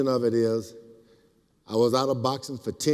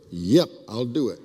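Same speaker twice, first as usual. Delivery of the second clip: laughing agreement; 3 semitones lower than usual. Real, not acted. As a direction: giggle through the answer. Laughing at the million offer.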